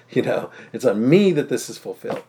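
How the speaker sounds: "me" leaned on, set apart in the phrase; stress on me. Shown as a demonstration. Preacher stressing "me" to the congregation, leaning on the word. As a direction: hit the word "me" as if it all rests on you. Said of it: "I would probably be emphasizing that word "me".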